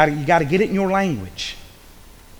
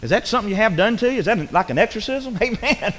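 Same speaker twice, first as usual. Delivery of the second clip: lightly played baffled country boy, pitched higher; 6 semitones higher, faster than usual. Preacher plays himself as a baffled country boy, mock naive. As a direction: puzzle over the big word in mock ignorance. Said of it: "I'm a country boy".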